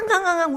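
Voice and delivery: repeated mock sobs; imitated wailing. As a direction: imitate open-mouthed bawling. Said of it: "울면서요".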